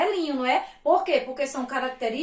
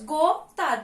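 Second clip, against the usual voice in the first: "Gota" split into two beats; syllable by syllable. Shown as a demonstration. Teacher showing two little syllables, "Gota" split in two. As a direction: say "Gota" as go, pause, ta. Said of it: "Duas sílabazinhas".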